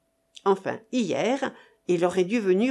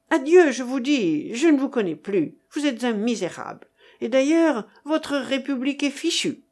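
raised, acted angry parting; higher-pitched quarrelsome outburst; indignant farewell; 5 semitones higher than usual. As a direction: break off the friendship in a huff. Acted quarrel, breaking off a friendship.

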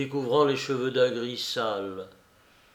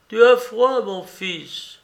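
a mother's alarmed question; worried old mother; 8 semitones higher, 6 dB louder, slower than usual. A narrator's reading. Mother frightened for her shivering son, high and alarmed.

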